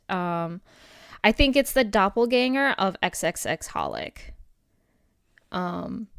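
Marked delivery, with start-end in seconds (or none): 3.0-4.3 "X X X Holic" with each X as a letter; X's spoken aloud. Real, not acted. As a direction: spell out every X before "Holic". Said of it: "we say it like that so you know how to type it".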